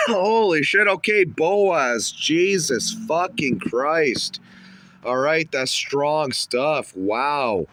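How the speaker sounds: high, loud, slow exclamations; stunned. Real, not acted. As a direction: reel from the hit, loud and drawn out. Reacting to strong weed.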